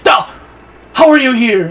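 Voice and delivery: high, loud theatrical disbelief; mock shocked shout. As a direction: cry out in hammed-up astonishment. Acts father's shocked outburst.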